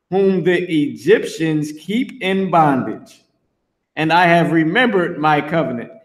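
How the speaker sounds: measured, formal Bible reading; scripture reading. Acted. Preacher reading Exodus aloud to his listeners, solemn. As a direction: read the verse out with weight.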